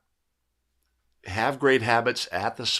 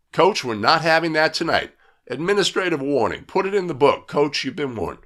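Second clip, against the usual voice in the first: firm, louder referee telling off a coach; firm official warning; 3 semitones higher, 5 dB louder than usual. Acted. Referee warning the coach in a firm, louder voice. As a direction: lay down the law to the coach.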